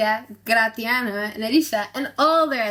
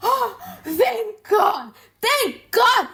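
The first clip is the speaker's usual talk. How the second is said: high, laughing cry of delight, slow at first; crowing with cruel joy at a rival's misfortune; gleeful; 10 semitones higher, much slower than usual. Acted. Shylock crowing to Tubal over Antonio's lost ship, high gleeful laugh.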